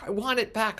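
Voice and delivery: demanding. Retold or imitated. Neighbor demands the uniform.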